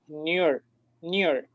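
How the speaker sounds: NEAR squeezed into a single syllable; run together as one. Shown as a demonstration. Teacher showing students the mistaken reading, NEAR merged into one syllable. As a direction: say NEAR as one unbroken character. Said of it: "fuese un solo carácter".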